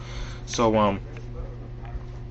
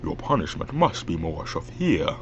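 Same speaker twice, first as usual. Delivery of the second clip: villain voice held off the higher register; restrained masked villain demo; Bane; 3 semitones lower, 4 dB quieter than usual. Shown as a demonstration. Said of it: "not to use the higher parts".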